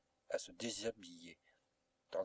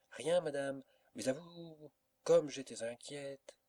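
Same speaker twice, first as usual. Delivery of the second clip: put-on higher, fussing old maid's voice; lightly voiced anxious old servant; old servant, flustered; 5 semitones higher than usual. A narrator's reading. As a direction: fret with relief over her young mistress. Servant voice held.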